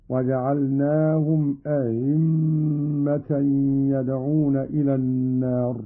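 أئمة with its second hamza eased into a glide; softened second hamza. Shown as a demonstration. Teacher demonstrates Qalun's reading, أئمة with softened hamza. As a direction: soften the middle of أئمة, no second glottal stop. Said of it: "بتسهيل الهمزة الثانية".

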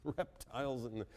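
breaking into laughter mid-quote; can't get the words out for laughing. Real, not acted. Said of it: "I'm sorry".

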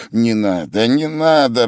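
irritable brush-off, rising on the repeat; irritated. A narrator's reading. Sick man refusing the fussing helper, mildly irritated. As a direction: wave the offer away testily. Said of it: "раздражительно отмахивался Вельчининов".

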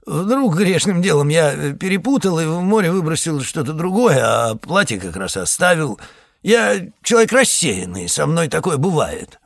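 a hint of a sly boatman pretending to forget; feigned scatterbrain. Ferryman backpedalling to the pastor, feigning innocence.

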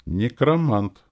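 unsure objection. A narrator's reading. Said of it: "возразил я без уверенности".

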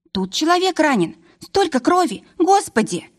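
high panicked shriek. Acted. Guest shrieking at the blood, high panicked cry. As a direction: squeal out in terror at the blood. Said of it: "кто-то взвизгнул".

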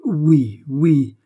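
tentative, separated assents; hesitant. Acted. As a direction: agree without being sure. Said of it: "répliqua le gouverneur hésitant".

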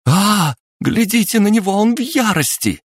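высокий, громкий испуганный вопль; заори в страхе, визгливо; испуганный крик. Acted. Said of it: "испуганно заорала Фая". (Фая в испуге кричит: испуганный вопль)

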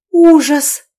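high, very loud shriek of horror; shocked scream; horrified cry. A narrator's reading. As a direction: recoil screaming. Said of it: "воскликнула Ольга".

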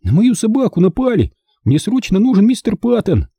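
put-on high, urgent boy begging; desperate, high-pitched plea; pleading. A narrator's reading. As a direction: beg for help in a high child's voice. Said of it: "взмолился Бенжи".

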